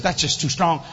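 mock pious pleading, dragging it out; a hint of a whiny churchgoer; whiny church voice. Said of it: "church says".

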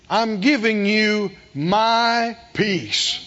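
slow, gentle promise of peace; Jesus speaking tenderly to Keith. Retold or imitated. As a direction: offer it slowly, like a gift. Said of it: "like Jesus said to Keith".

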